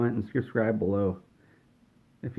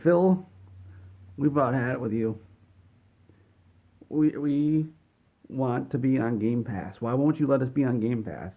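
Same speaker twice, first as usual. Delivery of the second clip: mock fed-up; 3 semitones higher than usual. Ubisoft head confronting Phil about Game Pass, mock exasperation. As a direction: play a fed-up executive making demands.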